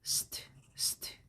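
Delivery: bare ST sounds, voiceless and soft, no vowel; sounded-out pronunciation. Shown as a demonstration. Teacher breaking down the pronunciation of stomach, voiceless sound demo. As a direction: hiss out ST twice as separate consonant sounds. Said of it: "And the pronunciation is".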